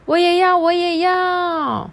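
put-on kids' voices eager to sign up; eager kids. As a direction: pipe up like eager little kids. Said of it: "好多人说".

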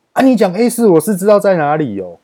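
high, loud indignant retort; imitated angry technician. Technician suddenly turns on the worker over unit A4, imitated angry outburst. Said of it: "那个冷气技师就突然对我凶".

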